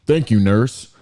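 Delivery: lightly voiced doctor; put-on doctor voice. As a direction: answer as a doctor, slightly put on. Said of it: "the doctor talks like this now".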